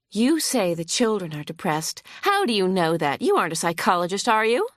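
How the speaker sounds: lightly voiced hostile lawyer. Opposing lawyer grilling the vet on the stand, mildly huffy. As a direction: press the witness with mild scorn.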